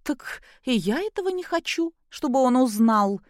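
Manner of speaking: high, smiling, suddenly meek agreement; suddenly compliant. Acted. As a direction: give in with a sweet smile. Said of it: "неожиданно покладисто улыбнулась Кристина".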